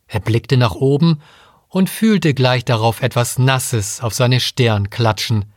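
plain reading voice

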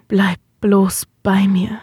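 slow rough murmur; hoarse, pleading murmur; rau geflüstert. Acted. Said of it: "wisperte er mit rauer Stimme". (raues, leises Wispern)

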